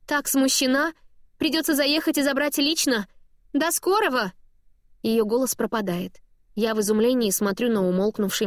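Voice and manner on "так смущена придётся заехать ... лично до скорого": higher, bubbly mother owning up; embarrassed mom voice. A narrator's reading. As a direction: chirp it out, half mortified. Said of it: "жизнерадостный голос мамы".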